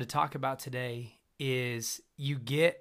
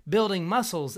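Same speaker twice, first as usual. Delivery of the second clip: higher bro preacher impression; mock preacher; 5 semitones higher than usual. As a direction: ham up a know-it-all preacher. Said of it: "they sit there and go".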